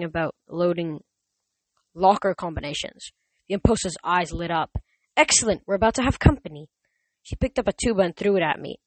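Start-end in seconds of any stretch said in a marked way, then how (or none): 5.2-6.7 gleeful. Acted. Monster gleeful.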